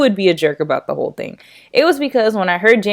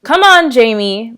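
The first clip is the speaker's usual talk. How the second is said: angry; 4 semitones higher, 5 dB louder than usual. Acted. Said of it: "Mom said angrily".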